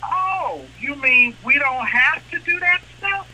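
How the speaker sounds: eager bank voice. Retold or imitated. Bank cheering the waived rules in a high mock-gleeful voice. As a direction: play the greedy bank thrilled to be let off the hook. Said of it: "They say".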